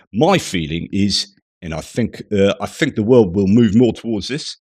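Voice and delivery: put-on loud, earnest Kiwi accent reading Goff's words; New Zealand accent. Reading Goff's quote to viewers in a New Zealand accent. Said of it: "I'm gonna try my New Zealand accent".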